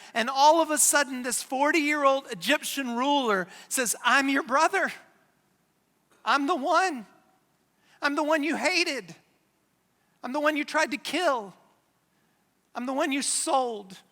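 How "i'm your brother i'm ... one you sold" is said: dramatic reveal. Acted. Joseph revealing himself to brothers.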